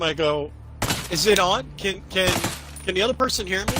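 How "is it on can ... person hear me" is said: playing dumb. Talking to somebody in the room, playing dumb. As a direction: fumble as if new to the headset. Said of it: "So I play dumb for a minute".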